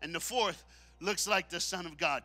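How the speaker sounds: ordinary talk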